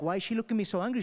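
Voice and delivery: acting out a flustered worrier; panicking. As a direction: blurt it fast in a comic fluster. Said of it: "My mother's panicking".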